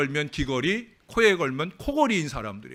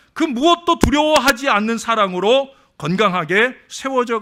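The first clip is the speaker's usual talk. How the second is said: louder, higher earnest declaration; fervent preaching; 7 semitones higher, 8 dB louder than usual. Acted. Pastor confesses his love to the congregation, preaching loud. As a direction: declare your love for the church with conviction.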